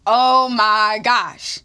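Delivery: slow, drawn-out sigh of a phrase; exasperated. Retold or imitated. To his touchy date, an exasperated groan. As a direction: drag it out, fed up. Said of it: "I'm like".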